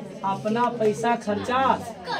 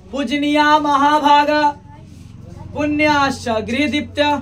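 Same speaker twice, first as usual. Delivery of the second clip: verse recitation; 2 semitones higher than usual. Acted. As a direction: intone the verse like a preacher.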